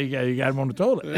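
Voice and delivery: laughing. Retold or imitated. Acted joke at funeral.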